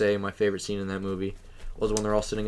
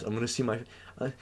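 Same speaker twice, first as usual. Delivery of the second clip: put-on Mexican accent; 3 semitones higher than usual. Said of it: "I did a Mexican accent".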